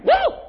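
high loud whoop of praise; joyful woo. Real, not acted. Pastor whooping to the church, loud and high. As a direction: let out a happy shout.

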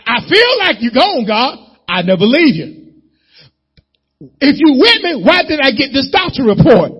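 high, loud pleading to God; desperate prayer. Acted. Believer complaining to God about a doctor report, pleading. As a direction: cry out like a worried believer.

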